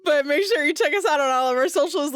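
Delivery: outro line still giggling from the rant; half-laughing flubbed outro; laughing through it. Real, not acted. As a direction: try to read the outro but the laugh leaks in. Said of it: "I'm really butchering this outro".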